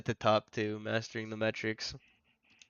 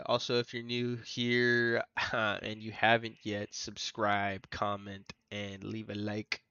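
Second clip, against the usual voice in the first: slow, upbeat channel outro voice; YouTuber voice; slower than usual. Pretend. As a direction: do the subscribe plea like a YouTuber. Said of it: "how you guys like my YouTuber voice".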